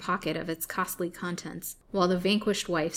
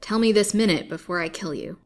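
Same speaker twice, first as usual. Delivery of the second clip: loud, raised, furious accusation; gloating turning to loud menace; crying out; 7 dB louder than usual. A narrator's reading. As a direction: demand it with a threat. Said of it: "cried the old man".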